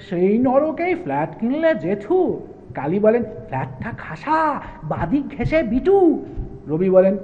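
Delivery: animated verse dialogue, with drawn-out phrase ends; theatrical, swinging rhymed delivery; comic poem recitation. Acted. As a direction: play both poets in a lilting recital. Recites poem dialogue between two poets.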